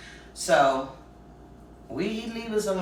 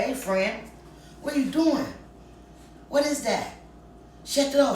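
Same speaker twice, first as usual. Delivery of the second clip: alarmed; 9 semitones higher than usual. Retold or imitated. Catching friend doing crack.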